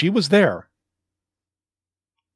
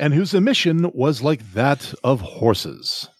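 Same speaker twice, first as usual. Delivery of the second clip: solemn scripture reading. Shown as a demonstration. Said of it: "and I quote".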